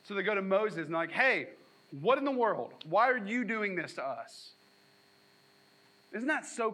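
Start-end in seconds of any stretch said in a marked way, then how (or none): 1.1-4.5 mild mock whine; whiny complaint. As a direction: whine at Moses like a sulky crowd. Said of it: "immediately whine to the leadership".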